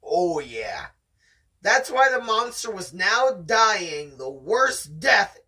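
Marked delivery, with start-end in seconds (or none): 1.6-5.4 steady read-aloud storytelling voice; story narration. Acted. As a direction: read it like the audiobook. Reading the novel aloud.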